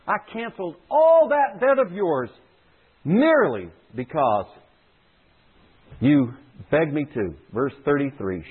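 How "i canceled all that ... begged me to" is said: higher, indignant scolding; stern master's rebuke. Acted. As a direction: scold the servant like a wronged lord. Master's rebuke repeated for emphasis.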